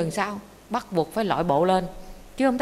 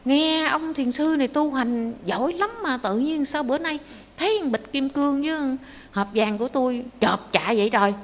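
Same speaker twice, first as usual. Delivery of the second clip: high-pitched, aghast outcry; panicked shock; 5 semitones higher than usual. Acted. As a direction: act out a rich man scared out of his wits. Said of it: "ông hết hồn hết vía". (hốt hoảng, kêu trời)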